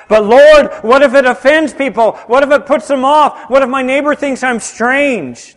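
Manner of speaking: mock-worried "But Lord"; hammed-up nervous churchgoer pleading; anxious objector. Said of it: "voicing a hesitant believer's objections".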